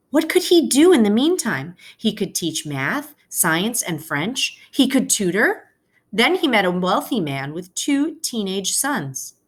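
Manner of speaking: expressive storybook read-aloud for a class; reading to children. Acted. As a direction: read it like a teacher sharing a picture book with kids. Teacher reads picture book aloud.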